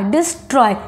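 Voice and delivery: "डिस्ट्रॉय" broken after "डिस"; falling "ट्रॉय" after a gap in "डिस्ट्रॉय"; pause between syllables. Shown as a demonstration. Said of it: "डिस बोल के आप थोड़ा".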